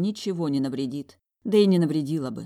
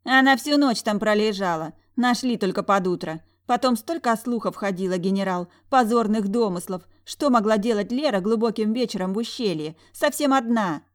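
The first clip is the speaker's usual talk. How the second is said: high, louder catty gossip; spiteful twin sister; 5 semitones higher, 5 dB louder than usual. A narrator's reading. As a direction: stir up scandal at dinner. (ехидная сестра-сплетница, высоко и громко)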